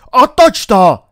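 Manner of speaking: high, very loud shout; full-force, high-pitched yell; panicked roar. A narrator's reading. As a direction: bellow an urgent order. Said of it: "zařval King".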